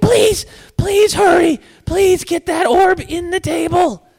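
very high-pitched, begging goblin voice. Narrating the game scene, the game runner speaks as the goblin, in a goblin voice. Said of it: "the goblin's like".

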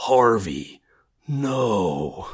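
grave delivery, the word "no" drawn out. Recalling Batman facing his fractured friend Harvey Dent, Batman impression. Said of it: "I'll do my very best to impersonate this moment".

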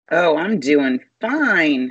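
forced, phony cheer, drawn-out "fine". Asked on air how things are going, the host answers with a fake-sounding reply. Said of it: "that sounded so fake".

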